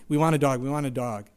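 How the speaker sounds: loud then fading chant; nagging kids. Retold or imitated. Kids repeating their request to dad, nagging. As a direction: keep nagging like a kid.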